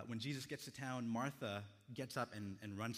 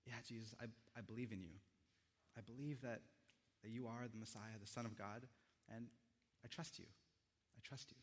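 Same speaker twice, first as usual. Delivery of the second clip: tearful Martha; 5 dB quieter than usual. Acted. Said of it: "as she starts to cry".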